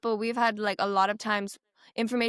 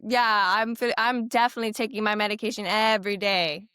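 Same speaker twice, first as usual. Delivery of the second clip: pretend reassurance. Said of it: "I could lie to you too".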